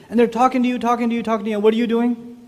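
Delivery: usual speaking voice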